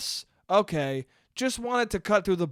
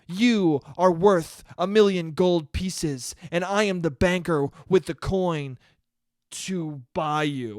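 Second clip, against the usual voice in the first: mock smooth poet; 4 dB louder than usual. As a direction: ham up the flattering poet, lightly. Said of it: "The guys who were like".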